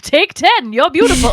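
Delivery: high, loud mock-flirty tipping; flirty tipper.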